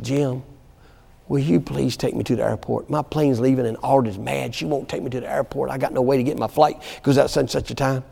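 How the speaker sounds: soft, low imitation of a distraught mother; subdued pleading, only lightly acted; retold tearful plea. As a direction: quote her pleading quietly, understated. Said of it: "she's in tears, crying. She said".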